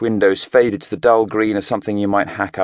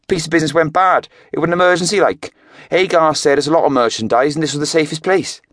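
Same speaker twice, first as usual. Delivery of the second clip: higher Welsh lad, defensive; a kid making excuses in a Welsh lilt; Welsh teenager; 9 semitones higher, 3 dB louder than usual. A narrator's reading. Jake explaining the emergency to Craig, defensive Welsh.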